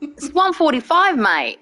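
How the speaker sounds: put-on Australian twang; bad Aussie accent. Streamer telling Aussie viewers the time, bad Aussie accent. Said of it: "Is that a really bad Aussie accent?".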